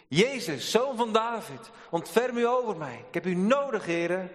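high pleading call to Jesus; crying out. Acted. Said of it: "En die begint te roepen".

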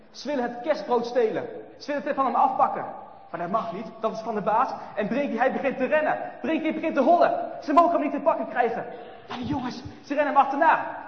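loud, high and urgent; breathless chase narration. A narrator's reading. Narrator racing through the chase, excited. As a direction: tell it like you're running too.

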